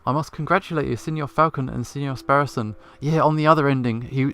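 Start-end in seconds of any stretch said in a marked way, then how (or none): 0.1-2.8 put-on a light Italian accent on the congratulations. Character congratulating the two lawyers, in a light Italian accent. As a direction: congratulate them with a trace of Italian. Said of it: "Still using that old accent".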